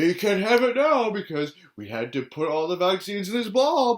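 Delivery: bright, hyped host voice mocking the show; mock announcer. Vlogger mocking the show's host in a hyped pitch. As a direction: sell it like a smarmy TV host.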